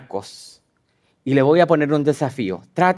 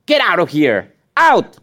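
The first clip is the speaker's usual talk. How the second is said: casting out demon. Acted. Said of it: "le dice".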